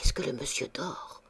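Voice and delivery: put-on frightened child's whisper; a girl whispering about the dead man. A narrator's reading. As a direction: whisper it near the bed. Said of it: "demanda-t-elle très bas".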